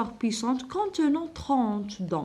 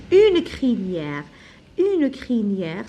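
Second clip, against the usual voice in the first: very slow, louder model answer une crinière; slow dictation; 6 dB louder, much slower than usual. Shown as a demonstration. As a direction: stretch each word out for the class. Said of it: "dictating answer".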